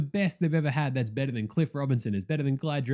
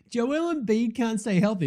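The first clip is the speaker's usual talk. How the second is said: mocking a fan; 8 semitones higher than usual. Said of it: "he's all like".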